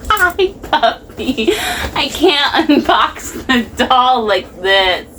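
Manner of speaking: high, slow coo at the puppy; dog-talk voice. Real, not acted. Talking to dog during unboxing.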